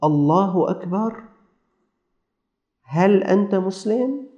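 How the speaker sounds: slow, tentative questioning lift; a hint of halting, questioning speech; lightly voiced stranger. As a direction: imitate a stranger's slow greeting, rising at each end. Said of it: "ويقول له".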